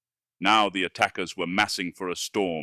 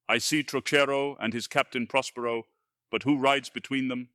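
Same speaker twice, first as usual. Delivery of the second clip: high cry of disbelief; can't believe his eyes; disbelieving cry; 4 semitones higher than usual. Acted. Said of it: "cried out in unbelief".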